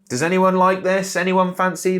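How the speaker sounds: high, loud, mocking ad voice. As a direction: lampoon a cheesy ad opener. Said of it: "if you start it with this".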